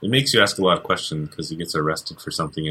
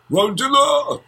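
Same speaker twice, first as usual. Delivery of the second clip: high, hammed-up movie-dub shout; horrible Asian accent; 3 dB louder, slower than usual. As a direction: belt it like an old dubbed monster movie. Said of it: "horrible Asian accent".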